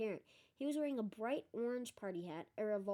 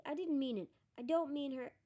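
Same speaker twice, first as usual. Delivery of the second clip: higher, mildly frantic protest; 5 semitones higher, 4 dB louder than usual. A narrator's reading. Hermione panicking as Myrtle arrives, frantic. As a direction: plead to take it back, voice raised in pitch. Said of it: "Hermione whispered frantically".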